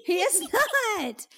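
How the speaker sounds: high, slow laughing denial; laughing insistence. Real, not acted. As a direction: laugh while insisting he isn't.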